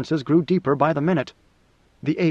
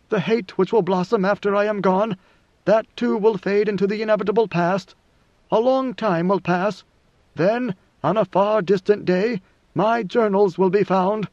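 lightly voiced emperor looking to a distant day; measured prophecy, unhurried; God Emperor, prophetic; 4 semitones higher than usual.

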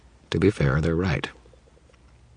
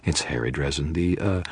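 sarcastic inner mutter; 6 dB quieter than usual. Acted. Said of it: "I thought".

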